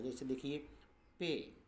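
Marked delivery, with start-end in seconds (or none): 1.2-1.5 "पे" with a stretched ए vowel; drawn-out "ay". Shown as a demonstration. Teacher shows the longer A sound, stretched "ay" in "पे". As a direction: hold the long "ay" in "पे". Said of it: "कुछ लंबा उच्चारण देता है".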